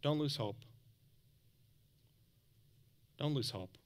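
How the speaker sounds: soft, hushed reassurance with long pauses; gentle encouragement. Real, not acted. Preacher to those in a bad season, gentle encouragement.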